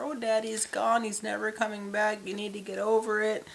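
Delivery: a hint of a boozy mom; lightly voiced drunk mommy. Drunk mommy dismisses her daughter, lightly voiced. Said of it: "Mommy's constantly drunk".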